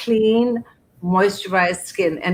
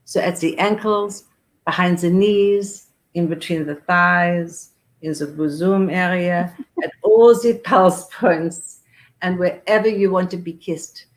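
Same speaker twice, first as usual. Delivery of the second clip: put-on storytelling in a light French accent. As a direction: lightly imitate a French perfumer. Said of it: "my French accent".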